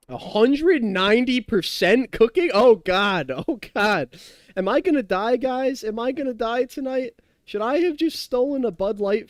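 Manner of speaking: jokingly panicked cries; mock panic. Panics about salt in the wine.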